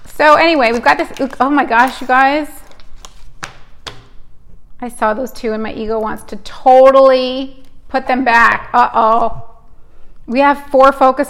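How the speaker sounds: riding a wave of real chocolate energy; hyper. Real, not acted. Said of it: "I know I sound very hyper right now".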